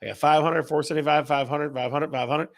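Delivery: a hint of an auctioneer calling bids; host calling out viewers' guesses, mild mock auctioneer. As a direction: lightly rattle off the bids like an auctioneer. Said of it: "I sound like an auctioneer".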